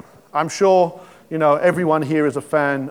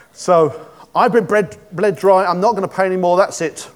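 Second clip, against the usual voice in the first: Gloin refusing to pay; 4 semitones higher, 5 dB louder than usual. Acted.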